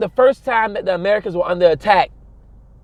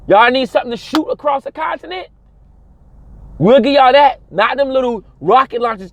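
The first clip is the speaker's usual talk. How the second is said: mock eager offer; 6 semitones higher than usual. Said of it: "European country that said".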